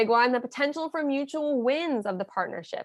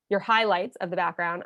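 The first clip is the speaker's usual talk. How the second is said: highlights leaned on, the rest kept low; stress on highlights; 4 semitones lower than usual. Shown as a demonstration. Coaching a listener on a partner call, stressing highlights. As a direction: make highlights the word that lands. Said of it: "I stress that word highlights".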